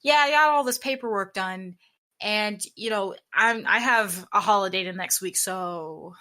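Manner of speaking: casual report trailing off on a long SO; dangling so. Retold or imitated. Imitating someone chatting about paperwork, dangling SO. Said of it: "when I'm talking to someone and they say".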